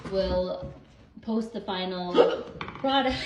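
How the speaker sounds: giggling, words breaking up; cracking up mid-sentence; laughing through hiccups. Real, not acted. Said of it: "I have the hiccups".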